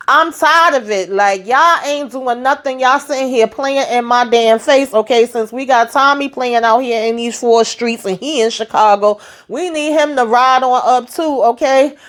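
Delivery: high, fed-up rant breaking into laughs; ranting at the mourners with a laugh; exasperated rant. Real, not acted. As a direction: vent your frustration, half laughing.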